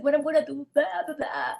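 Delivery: mildly hammed-up fretting; drama queen. Woman complaining to her boyfriend, drama queen. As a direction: play up the helpless worry a little. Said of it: "drama queen".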